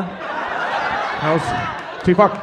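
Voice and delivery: mock shouted self-rebuke. Comic mock outrage at crowd.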